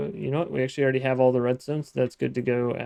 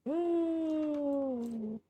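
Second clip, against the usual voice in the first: surprised oh; 13 semitones higher, 8 dB quieter than usual. Real, not acted. Surprised at efficiency.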